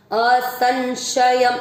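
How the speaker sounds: असंशयम very slowly ending in a clear म; careful teacher demo. Shown as a demonstration. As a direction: stretch असंशयम out, closing on म. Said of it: "वो है आधा म".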